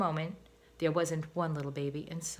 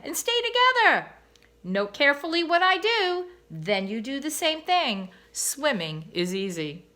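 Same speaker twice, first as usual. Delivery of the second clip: a high, loud motherly voice, easing down at the end; mother swan; 7 semitones higher, 6 dB louder than usual. A narrator's reading. Mother swan telling her babies to stay together, higher. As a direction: coax the little ones along.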